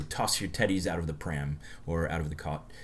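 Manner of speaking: slipping lightly into an English accent. Shown as a demonstration. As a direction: say the British phrase with a hint of English accent. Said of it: "slipping into the English accent".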